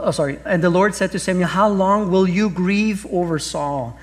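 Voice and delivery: ordinary talk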